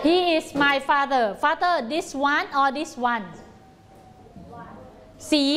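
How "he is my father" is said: each word slow and spaced for the class; slow model answer. Shown as a demonstration. Teacher modelling the answer for children, slow and clear. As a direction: spell it out slowly so children can copy. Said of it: "คำตอบต้องตอบว่า".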